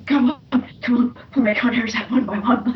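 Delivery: a lightly voiced demon, only a hint of possession; demonically possessed voice. Shown as a demonstration. The speaker reads the possessed girl's line for Matt, lightly demonic. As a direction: let a touch of something demonic creep into the read. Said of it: "like, this demonically possessed voice".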